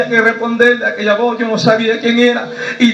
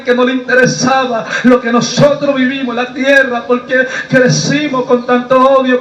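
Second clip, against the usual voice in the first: impassioned, driving confession from the pulpit; declamatory preacher recounting past anger; fervent testimony preaching. Acted. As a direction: preach the bitterness with urgency.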